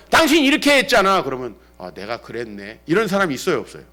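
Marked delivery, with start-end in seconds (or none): 0.1-1.2 high, loud accusing spouse; mock marital accusation. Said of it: "부부싸움 할 때 보세요". 1.8-2.8 low, soft concession; imitated meek admission. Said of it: "부부싸움 할 때 보세요".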